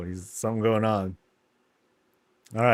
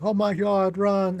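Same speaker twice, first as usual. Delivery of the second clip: higher, hammed-up cry of alarm; mock panic; 9 semitones higher, 4 dB louder, slower than usual. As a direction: act out kids fleeing from monsters. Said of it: "when they see the monsters".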